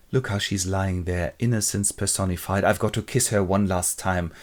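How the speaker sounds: low, hushed tenderness; mild grief, kept low; sorrowful. Acted. Husband gazes at sleeping wife before killing her, softly sorrowful.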